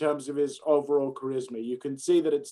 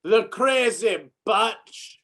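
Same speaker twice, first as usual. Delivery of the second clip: put-on slow, drawn-out Scottish accent, pitched up; 5 semitones higher, much slower than usual. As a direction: stretch each word in a put-on Scottish accent. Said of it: "You're allowed to do Scottish accents".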